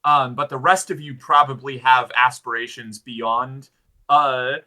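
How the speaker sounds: lightly voiced, formal and deliberate warrior; gallant fighter. Fighter addressing companions about retaking the town, lightly acted solemn bravado. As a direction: declaim it with measured emphasis, stretching key words. Player speaks in character.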